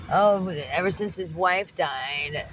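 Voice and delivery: slow mock sympathy play; laying it on thick. Widower fishing for sympathy from the cleaner, mildly laying it on thick. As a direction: drag it out as a bid for sympathy. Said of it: "trying to lay it on thick".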